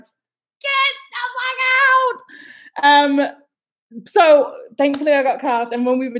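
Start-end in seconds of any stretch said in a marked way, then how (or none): 0.0-3.3 high, drawn-out stunned cry of disbelief; mock disbelief. Castmates hearing she's American, drawn-out disbelieving cry. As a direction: stretch it out in shocked disbelief. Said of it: "And they're like".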